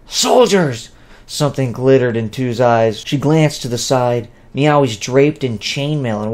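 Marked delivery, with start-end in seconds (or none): 0.1-0.9 a sharp, higher call for the guards; yelled command. Acted. Scratcher yells for his soldiers to stop the humans. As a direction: bark the order across the clearing. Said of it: "Scratcher yelled".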